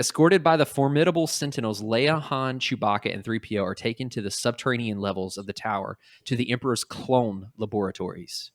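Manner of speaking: a hint of a grand narrator; like Dexter. Host rereads the caption doing a Dexter voice. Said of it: "I said that like Dexter".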